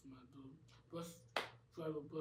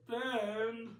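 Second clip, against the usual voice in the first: calling out; 7 semitones higher, 13 dB louder than usual. Acted. Mad Dog calls out to friend.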